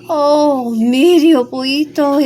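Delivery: calling out loud and high for help; a choked stream crying out. Acted. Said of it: "it cried out".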